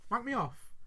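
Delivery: mild acted disbelief; taken-aback question. Other dad answering the proposition, taken-aback question. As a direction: echo it back as a question. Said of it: "I'm gonna do the scene".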